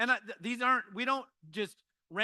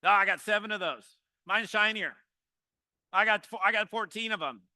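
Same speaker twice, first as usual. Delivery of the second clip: louder, boastful one-upping; one-upper bragging; 6 dB louder than usual. Retold or imitated. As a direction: brag to top every story. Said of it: "the one-uppers".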